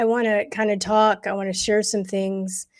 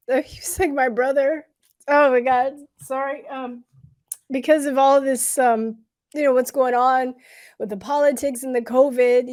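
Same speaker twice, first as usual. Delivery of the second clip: crying. Real, not acted. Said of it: "I didn't think I was gonna cry".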